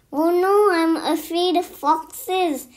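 high, loud cry of alarm; acted alarm, loud burst on the opening; alarmed exclamation. A narrator's reading. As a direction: exclaim it in storybook fright. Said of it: "exclaimed Turkey".

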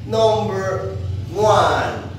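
high, loud and slow; drawn-out announcement. Acted. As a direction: stretch it out like a big reveal. Teacher announcing the number.

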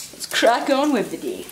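put-on light Scottish accent, brisk; a hint of a Scottish accent. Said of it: "say that in a Scottish accent".

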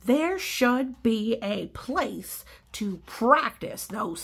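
slow, dreamy bird voice; imagine it aloud as Pigeon, slowly. Acted. Pigeon describing school, slow.

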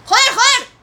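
shouted curse in panic; frustrated yell. Real, not acted. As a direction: yell it out, caught off guard. Enemy attack, panicked yelling.

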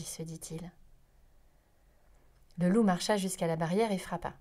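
ordinary delivery

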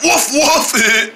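playful woofing; pretend dog bark. Joking that they are a dog, playful woofs. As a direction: do a quick mock bark.

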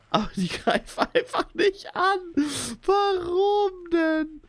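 high, slow half-sobbing whine; high laughing sob; laugh-crying whine. Real, not acted. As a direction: whimper through laughter. Laugh-crying over dogs.

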